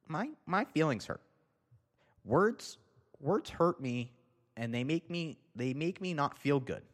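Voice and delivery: put-on high, childish, hurt whine; mocking whiny Karen. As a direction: parody someone fragile crying offense.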